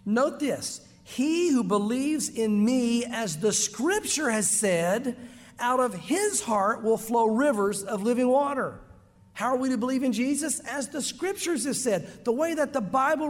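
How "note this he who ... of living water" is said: slow scripture reading. Acted. Preacher reads Jesus' words to the congregation, slow and solemn. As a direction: read John seven slowly and solemnly. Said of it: "it says this".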